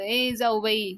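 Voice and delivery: mildly called out to both sisters-in-law; calling out. Acted. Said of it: "पाल्या ओरडतो".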